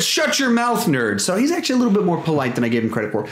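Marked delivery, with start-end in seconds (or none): 0.0-1.2 mock insult. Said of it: "He just said".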